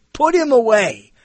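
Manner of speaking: "Put him away." dragged out as a weary verdict; fed-up people. Retold or imitated. Critics dismissing the host, slow and fed up.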